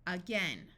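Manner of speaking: "Again" starts on a muffled uh; "Again" rhyming with "ten"; schwa in "Again". Shown as a demonstration. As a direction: say "Again" as uh-GEN. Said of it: "more like a muffled uh sound".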